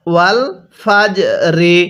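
"ফাজ" with a slight push releasing the final জ; bounced জিম. Shown as a demonstration. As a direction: bounce the j at the end of "ফাজ" before "রি". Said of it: "এই জিমটা পড়ার সময় একটু ধাক্কা দিয়ে পড়তে হবে". ("ফাজ"-এর জ একটু ধাক্কা দিয়ে উচ্চারণ)

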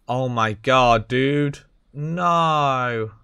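slow, drawn-out groan of disappointment; real dismay. Real, not acted. Player groaning at a bad vault reward, dismayed. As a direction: let the NO stretch out in dismay.

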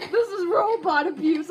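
mock sob through laughter; fake-cry while laughing.

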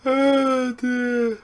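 soft, high tail of a laughing fit; spent laughter. Real, not acted. Gamer recovering from a fluke goal, weak laughing voice. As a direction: sigh it out, still laughing.

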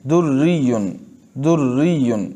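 दुर्रियुन with a light, thin doubled R. Shown as a demonstration. Teacher models दुर्रियुन for the class, thin R. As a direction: say दुर्रियुन twice, keeping the double R fine. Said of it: "दुर्रियुन की रा को बारीक".

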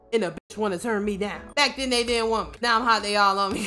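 ordinary delivery

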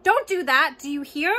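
loud, high imitation of the owner's scolding; mock shout. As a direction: bark the owner's order back at them. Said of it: "I know you shouted".

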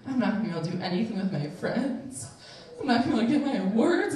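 fast mock fretting; freaking out. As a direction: rattle off worries in a small panic. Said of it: "I was just freaking out".

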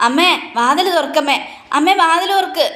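loud calling. Acted. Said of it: "ഒച്ചത്തിൽ വിളിക്കുക".

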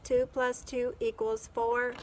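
robot voice. Acted. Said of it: "said the robot".

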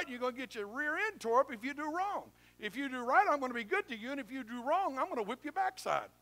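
a stern father promising reward or whipping; voicing God. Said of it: "So God's saying".

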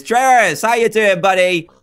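high, loud, chummy hello; cheery greeting. Real, not acted. Youtuber greeting his scientist friend, high cheery hello.

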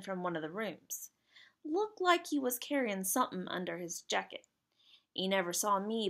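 lightly faked British lad telling his tale; attempted British accent. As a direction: try a British working-boy dialect, not very well. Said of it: "I can't do a British accent".

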